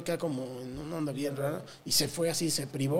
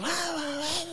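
mock yelling; 11 semitones higher, 4 dB quieter, much slower than usual. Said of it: "nos estaban gritando".

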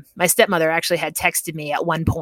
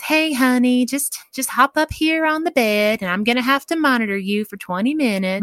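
higher, sing-song nurse coaxing; very calm; 7 semitones higher than usual. Retold or imitated. Nurse settling a frantic patient on the bed, calm coaxing. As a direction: lightly imitate a nurse soothing a patient. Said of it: "very calmly says".

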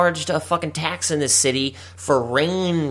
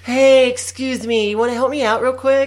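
sketchy stranger voice; 11 semitones higher, 4 dB louder than usual. Pretend. Acting Florida guy passing drugs.

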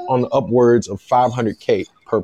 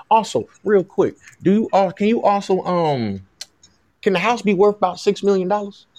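lightly Southern, higher-pitched polite request; pretend Southern agent; 5 semitones higher than usual. Agent haggles for a pricier house, in a light Southern voice. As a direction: raise the pitch for a cheeky ask, faintly Southern. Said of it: "This is my Southern voice".

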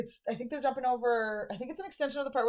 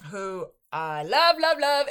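gushing; 2 semitones higher, 4 dB louder, slower than usual. Real, not acted. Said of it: "gushing about actress".

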